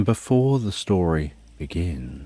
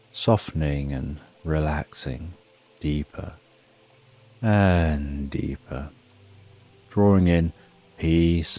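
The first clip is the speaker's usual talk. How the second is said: guided meditation. Acted. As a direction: lull the listener down gently. Guided sleep meditation countdown.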